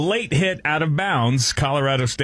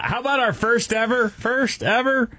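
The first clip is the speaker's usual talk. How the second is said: announcer voice; 13 semitones higher than usual. Acted. Announcing the segment title.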